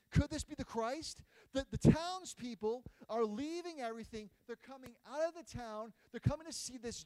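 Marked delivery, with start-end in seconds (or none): 0.1-1.2 wondering aloud. Acted. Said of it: "She's asking questions".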